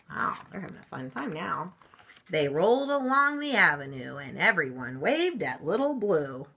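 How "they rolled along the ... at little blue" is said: lilting picture-book narration; story read-aloud. A narrator's reading. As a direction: read the rhyme out to children.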